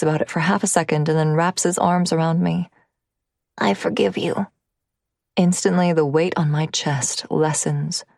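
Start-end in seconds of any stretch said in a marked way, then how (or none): 3.6-4.5 put-on child voice. Narrator voices the son.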